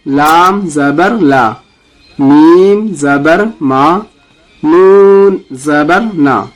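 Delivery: slow, deliberate letter-by-letter spelling; slow recitation drill. Shown as a demonstration. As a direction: spell each letter for students to repeat. Teacher leads letter recitation drill. (آہستہ قاعدہ پڑھانا)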